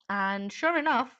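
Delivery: usual speaking voice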